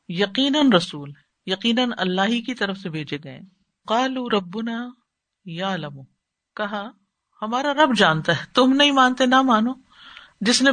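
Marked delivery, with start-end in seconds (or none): 3.9-6.0 slow, softer chanted recitation of the verse; Quranic recitation. Shown as a demonstration. Teacher recites the verse for students, slow soft recitation. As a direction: draw out each word as in tilawat.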